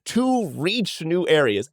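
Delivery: slow, drawn-out reading of the line; deadpan slow book quote; dramatic slow read. Retold or imitated. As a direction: savour each word of it.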